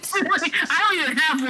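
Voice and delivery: laughs, then talks through laughter; cracking up while talking; laughing. Real, not acted. Laughing at gross example.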